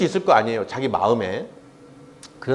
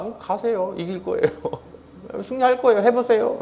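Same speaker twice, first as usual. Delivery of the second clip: blunt; 4 semitones higher, 5 dB quieter than usual. Retold or imitated. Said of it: "미가야는 퉁명스럽게 얘기한 거예요".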